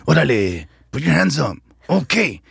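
high-pitched mock gang-member voice. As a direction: play a gang member at a bad audition. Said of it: "the gang member".

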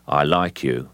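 lightly voiced icy gangster; understated menace, no feeling at all; emotionless Cockney gangster. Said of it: "absolutely no emotion in the voice".

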